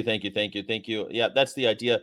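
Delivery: ordinary talk, nothing marked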